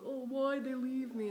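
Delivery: high, loud, drawn-out mock wail; mock crying. Sister mimicking her brother after a breakup, mock crying. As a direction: imitate a whiny cry, slow and high. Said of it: "then he starts crying".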